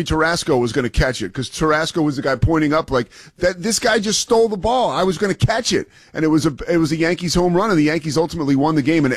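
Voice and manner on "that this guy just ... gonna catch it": lightly acted outfielder's complaint, pitched up; mildly aggrieved, higher-pitched quote; mock indignant protest. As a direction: imitate a player protesting a robbed catch. Acts out the robbed outfielder's protest.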